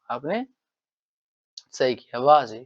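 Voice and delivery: loud cheeky "वाह जी"; cheeky praise. Retold or imitated. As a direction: flatter like a prankster. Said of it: "इस तरीके से रखेंगे". (शरारती लड़के की हल्की नकल)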